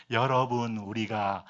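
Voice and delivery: low, unhurried preacher imitation; lightly teasing impression of a leisurely sermon; 김준호 목사님. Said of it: "설교도 천천히 하시잖아요".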